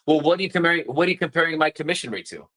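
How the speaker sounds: quick, defensive challenge; rushed, pushy, a bit indignant. Shown as a demonstration. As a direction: fire it back fast and defensive. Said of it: "Very different than saying".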